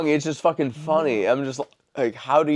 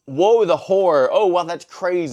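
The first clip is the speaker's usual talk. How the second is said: mock horror; 4 semitones higher, 4 dB louder than usual. Teasing his cohost with the expected reaction, mock horror. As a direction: play a pretend shocked reaction, a bit raised.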